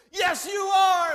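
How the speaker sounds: slow, high, full-force shout; drawn-out shouted affirmation; yelling, screaming. Retold or imitated. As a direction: roar it back as the whole group. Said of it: "yelling, screaming".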